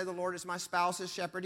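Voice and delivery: "spouse's" picked out as the contrasting word; brisk line leaning on "spouse's"; stress on "spouse's". Shown as a demonstration. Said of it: "He doesn't say".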